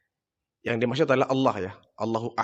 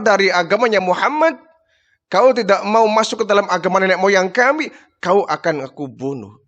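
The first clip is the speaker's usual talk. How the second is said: mock her suffering, then threaten; taunting threat; 2 semitones higher than usual. Abu Jahal taunts the tortured Sumayyah, raised and menacing.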